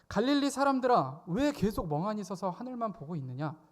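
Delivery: 갈릴리 사람들아 called out high and loud, then chiding; stern rebuke. Retold or imitated. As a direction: raise the voice to rebuke the disciples. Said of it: "이렇게 꾸짖습니다". (갈릴리 사람들아를 높고 크게 꾸짖듯이)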